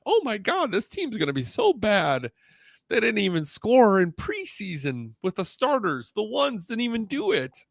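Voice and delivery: mock whining fans. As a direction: whimper it like a panicking fan. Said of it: "Do you think they're still crying like".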